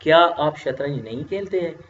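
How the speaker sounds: measured, respectful asking; polite formal question to a senior. Shown as a demonstration. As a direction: ask it politely, as to an elder. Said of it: "रस्मी तरीके से मैं पूछता हूँ".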